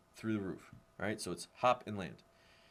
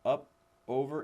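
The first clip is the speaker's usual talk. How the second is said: up, over called higher and louder; emphatic cue; 5 semitones higher, 6 dB louder than usual. Shown as a demonstration. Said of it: "kids will throw that bar".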